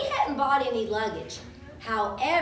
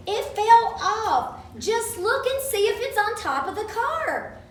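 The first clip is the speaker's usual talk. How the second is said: put-on urgent child's call; 8 semitones higher than usual. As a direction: make the driver finally listen. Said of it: "I shouted again".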